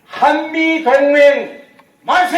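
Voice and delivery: loud, high, slow rally cry; shouted cheer. Real, not acted. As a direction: lead the crowd in a chant. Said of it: "제가 선창하겠습니다".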